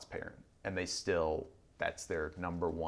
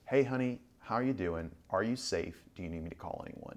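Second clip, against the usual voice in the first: gentle caring phone voice. Retold or imitated. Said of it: "she picks it up and she goes".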